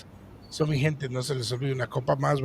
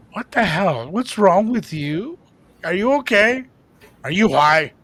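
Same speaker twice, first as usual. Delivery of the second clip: retold disbelief; 5 semitones higher, 6 dB louder, slower than usual. Friend reacts to phone prank.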